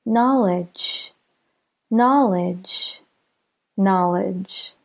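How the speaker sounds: "Knowledge" with KNOW longer and stronger; careful model "Knowledge", second syllable lighter; stress on first syllable. Shown as a demonstration. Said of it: "Let's listen to some examples of two-syllable nouns".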